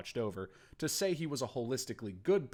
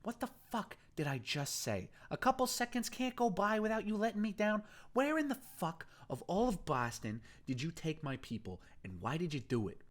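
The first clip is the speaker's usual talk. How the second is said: a gang boss snapping, higher in pitch; furious gang boss; 10 semitones higher than usual. Acted. Boston interrogating the captive, furious. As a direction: demand an answer, furious.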